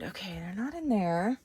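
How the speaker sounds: normal talking voice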